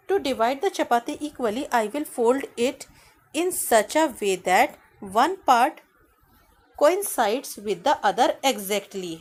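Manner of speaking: slow reading aloud. Shown as a demonstration. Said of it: "teacher reading English text slowly".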